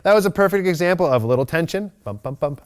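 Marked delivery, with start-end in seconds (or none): 2.0-2.6 bump, bump, bump said softly in rhythm; bump sounds. Shown as a demonstration. Trainer voicing leash pulses, soft rhythmic bumps. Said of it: "right here".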